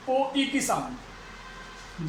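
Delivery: "ओ, ई" stretched very slowly and softly; teacher slowly demonstrating the sound; slow vowel demo. Shown as a demonstration. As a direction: hold "ओ" then glide to "ई". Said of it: "टॉय".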